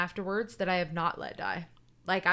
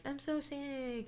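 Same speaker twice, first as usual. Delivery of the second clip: mock sick; 7 semitones higher, 7 dB quieter, slower than usual. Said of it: "she had been like".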